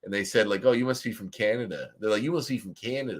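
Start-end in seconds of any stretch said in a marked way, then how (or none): 0.6-1.9 mock deep Southern accent; imitated Southern accent. Southerner guessing a traveler's origin in Vegas, imitated Southern accent. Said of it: "had a really deep Southern accent". 2.2-3.2 higher-pitched mock Southern accent; imitated Southern accent. Southerner guessing a traveler's origin in Vegas, imitated Southern accent. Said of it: "They sounded just like, uh, Jodie Foster".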